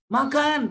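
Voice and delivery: MAKAN high and drawn out, falling at the end; long intonation. Shown as a demonstration. Lecturer demonstrates pressing someone to eat, long high intonation on makan. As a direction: stretch MAKAN into a long, insistent high call. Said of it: "panjang intonasi".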